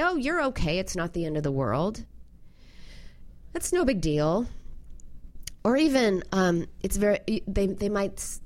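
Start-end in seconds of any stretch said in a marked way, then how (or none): 0.0-4.5 dismissive parent. Retold or imitated. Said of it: "dismissive parent might".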